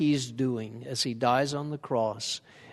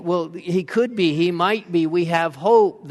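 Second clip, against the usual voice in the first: hopeful; 3 semitones higher, 5 dB louder than usual. Retold or imitated. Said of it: "they're saying".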